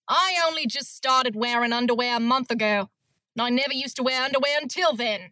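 a lightly played bitter Australian woman. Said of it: "That was better than".

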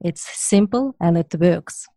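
put-on Russian accent. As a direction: say it like the proud Russian customer. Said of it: "I can help you".

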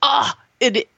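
real breath-only whisper of emotion; overcome whisper. Real, not acted. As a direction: whisper it, too moved to finish. Overcome by the father's death scene.

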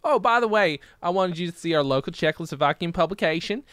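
lightly put-on comedian's Czechoslovakian routine; quoted comedian's bit. Comedian showing off a local publication, lightly voiced bit. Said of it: "I'm quoting a bit from one of my favorite comedians".

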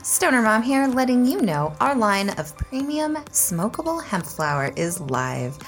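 upbeat sponsor read to listeners. Acted. Host reads the sponsor ad to listeners, upbeat ad read. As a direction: sell the hemp brand brightly.

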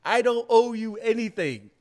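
high, loud, snooty brush-off; mock dismissive voice. To someone asking for sources, a high mocking brush-off. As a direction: play the snob who owes nobody anything.

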